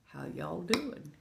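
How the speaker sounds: hushed, softly voiced greeting. Real, not acted. Streamer checking in on viewers, soft greeting. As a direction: ask it softly, well below full voice.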